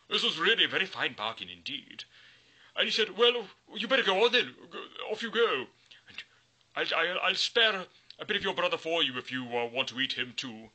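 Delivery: high, loud jolly troll. Acted. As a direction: wave him off like a pleased troll. Troll lets goat pass.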